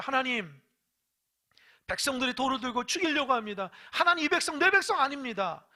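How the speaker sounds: Moses pleading, pitch and volume climbing; anguished prayer. Acted. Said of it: "모세가 너무 안타까워서 하나님 앞에 무릎 꿇고 기도합니다".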